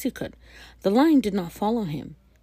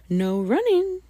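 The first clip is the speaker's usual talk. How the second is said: higher, louder scolding call; calling after; 10 semitones higher, 5 dB louder than usual. Acted. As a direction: call the rule after him. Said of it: "called after him".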